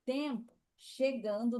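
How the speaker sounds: slow demo. Shown as a demonstration. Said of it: "Assim é chegar".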